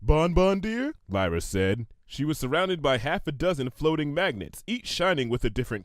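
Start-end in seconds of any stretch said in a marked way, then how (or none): 0.0-0.9 put-on sweet young mare voice. Lyra character voice.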